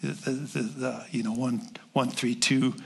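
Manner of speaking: steady closing prayer to God. Acted. Pastor praying for the church, earnest prayer. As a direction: pray it over the room.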